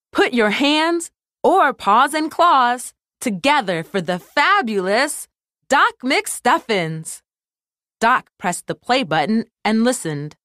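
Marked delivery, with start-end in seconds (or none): 0.1-7.2 showman announcer. Acted. Announcer introducing a star.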